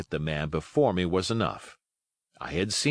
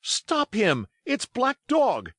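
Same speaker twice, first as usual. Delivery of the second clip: very high, raised alarm; high-pitched, drawn-out warning shout; urgent cry; 3 dB louder, slower than usual. A narrator's reading. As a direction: call out to stop a fugitive. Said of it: "I cried".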